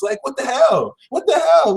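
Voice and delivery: high, incredulous what the hell; exasperated. Real, not acted. Reader exasperated at a lucky sign, incredulous. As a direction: throw up your hands in disbelief. Exasperated tarot reading outburst.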